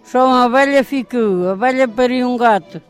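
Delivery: rhythmic folk verse recitation; reciting a rhyme. Acted. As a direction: chant it like a nursery rhyme.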